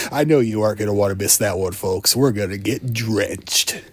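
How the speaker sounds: hammed-up morning radio DJ voice; cheesy radio jock patter; radio DJ bit. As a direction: slick drive-time host selling the next segment. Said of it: "that whole radio D J, you know, bit".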